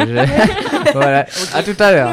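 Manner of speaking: laughing goodbye, high and loud. Real, not acted. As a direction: laugh through the sign-off. Signing off amid group laughter.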